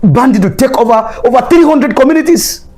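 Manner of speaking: high, heated rhetorical questions; angry. Real, not acted. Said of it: "I'm just being angry".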